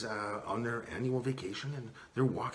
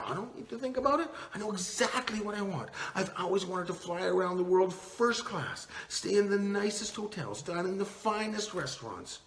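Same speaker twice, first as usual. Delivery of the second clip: higher, fast, eager wife's voice; 6 semitones higher, 3 dB louder than usual. Acted. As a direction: rattle it off like she's dreamed of it for years. Wife eagerly states her wish.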